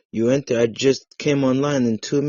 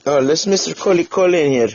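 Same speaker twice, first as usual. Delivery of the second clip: hammed-up introduction; 4 semitones higher than usual.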